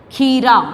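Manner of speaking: खीरा with a stretched, firm first vowel; long ee. Shown as a demonstration. Teacher modelling a spelling word, खीरा with long ee. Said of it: "इस तरह से आप शब्द का उच्चारण".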